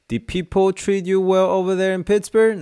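high, slow, pitying American man; pitying old man. Retold or imitated. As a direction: ask gently, as if consoling him. A pitying question about Pittsburgh. (用怜悯的高音慢慢问)

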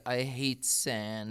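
lightly voiced whiny Jedi, slowed right down; quoting Anakin. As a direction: drag it out like a sulky Anakin. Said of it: "He said".

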